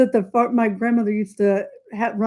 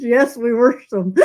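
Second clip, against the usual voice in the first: Southern warsh. Retold or imitated. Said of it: "Where do those extra R's come from?".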